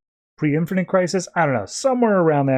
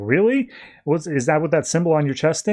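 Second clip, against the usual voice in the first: curious Ted; 2 semitones higher than usual. Retold or imitated. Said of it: "he's like".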